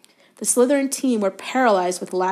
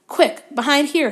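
high, urgent prompt; urgent hiss; 7 semitones higher, 4 dB louder than usual. A narrator's reading. Harry dragging Ron behind a bush, urgent hiss. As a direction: hurry a friend into hiding. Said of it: "Harry hissed".

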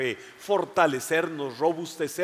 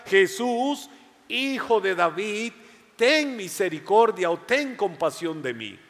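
pleading cry; 3 semitones higher than usual. Acted. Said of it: "Y le decía".

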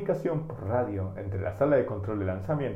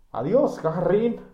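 high, loud send-off cry; big, loud "Adiós, Gagarin"; loud farewell call; 9 semitones higher, 7 dB louder than usual. Acted. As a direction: call goodbye across the launch pad. Control room farewell.

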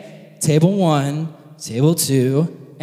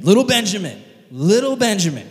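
playful cutesy emphasis; doting coo; 3 semitones higher, 4 dB louder than usual. Acted. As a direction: coo it as if to a baby. Doting on baby Benjamin's name.

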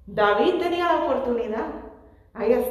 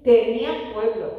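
Saul's excuse, said louder; 7 dB louder than usual. Retold or imitated. Preacher quoting Saul's lame excuse, louder. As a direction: push the excuse out loudly, as if pleading. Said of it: "Él dice".

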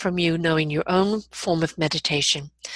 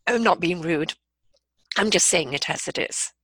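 calm, firm take-charge voice; authoritative, matter-of-fact; no-nonsense voice. Shown as a demonstration. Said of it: "this is the no-nonsense voice".

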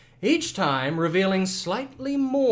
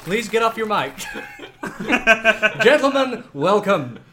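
game show host. Acted. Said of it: "You dropped the voice".

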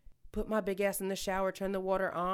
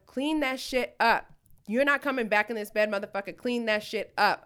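Samuel L. Jackson voice; 3 semitones higher, 5 dB louder than usual. Retold or imitated. Telling her drunk boyfriend to clean up, movie tough-guy yell. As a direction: bark it like the Snakes on a Plane guy. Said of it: "Snakes on a Plane motherfucker voice".

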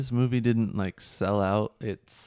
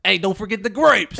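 laughing mimic; 9 semitones higher, 7 dB louder than usual. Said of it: "his girlfriend was like".

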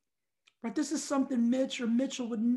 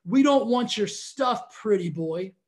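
mocking taunt; 5 dB louder than usual. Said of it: "he says".

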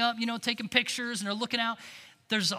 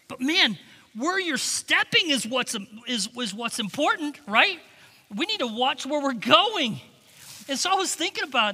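fervent preaching; preaching emphasis; 5 semitones higher, 6 dB louder than usual. Real, not acted. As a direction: drive the point home. Preacher pressing the point.

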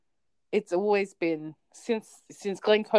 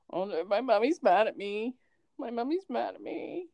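worried dog voice; 4 semitones higher than usual. Pretend. Dog fearing mummy is mad.

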